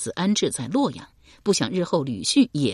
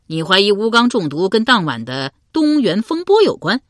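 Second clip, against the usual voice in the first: 刘伶追问; 5 semitones higher, 7 dB louder than usual. Acted. 刘伶 speaks.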